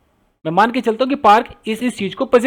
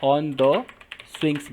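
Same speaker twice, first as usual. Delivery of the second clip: slow dictation; 4 semitones lower, 4 dB quieter, much slower than usual. Shown as a demonstration. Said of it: "यहाँ have कह रहा हूँ".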